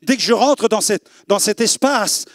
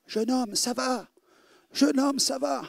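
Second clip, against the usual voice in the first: soft pastor's call; 5 semitones higher, 9 dB quieter, slower than usual. Retold or imitated. Pastor calling him back, soft.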